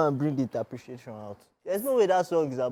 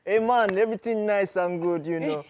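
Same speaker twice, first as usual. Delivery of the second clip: put-on South African accent. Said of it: "don't start South African accent".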